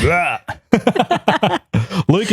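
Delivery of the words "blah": mock gagging noise; disgusted blah. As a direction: blurt a playful noise of disgust.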